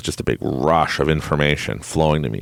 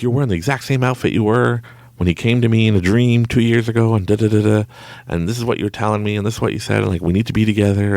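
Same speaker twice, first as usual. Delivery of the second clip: pitched-up, urgent insistence; retold freak-out; 5 semitones higher than usual. Telling her about the dream, retold freak-out. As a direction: pour it out like you're freaking out. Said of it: "I'm freaking out and stuff".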